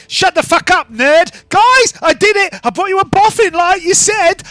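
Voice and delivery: high, loud and brash; rowdy yell. Acted. Gang girl shouting down the scholar and bragging to the crew. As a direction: crow about the catch. Spring yelling at the nerd.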